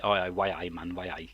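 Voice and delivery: lightly put-on Geordie accent; mock northeastern accent. Brother teasing him for sounding northeastern, mock Geordie accent. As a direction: imitate a caricature northeast English accent. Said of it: "he thinks I sound northeastern".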